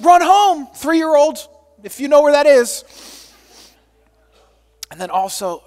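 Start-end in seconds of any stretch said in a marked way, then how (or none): 0.0-2.8 panicked urgency. Retold or imitated. Panicked thoughts told.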